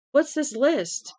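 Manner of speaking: high, loud, slow near-scream; nearly screaming. A narrator's reading. Frantic father demands to know about the list, near-screaming. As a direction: demand it, almost shouting. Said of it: "He was nearly screaming".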